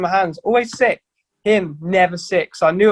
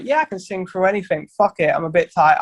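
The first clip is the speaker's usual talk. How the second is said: shrugging it off, carefree and sure; breezy confidence. Retold or imitated. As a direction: brush off tiredness like it's nothing. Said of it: "I'm not like".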